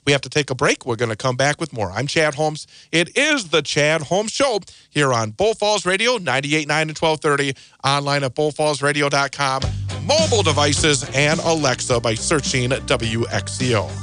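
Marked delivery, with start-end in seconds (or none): 1.9-13.9 smooth radio host. Acted. Radio station ID read.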